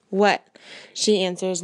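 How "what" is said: a sharp, louder What, just short of snapping; almost snapping. Acted. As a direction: bite it off, mildly irritated mother. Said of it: "not quite snapping at me, but almost".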